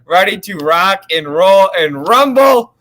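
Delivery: thin sound from a laptop microphone; talking into a laptop mic. Real, not acted. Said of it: "Sounds like your laptop mic to me".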